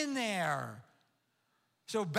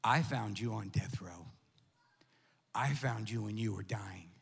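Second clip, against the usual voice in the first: lower, tender voice of God; voice of the Lord; 6 semitones lower than usual. Acted. The Lord speaking to pastor John through the dog, low and tender. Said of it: "he goes".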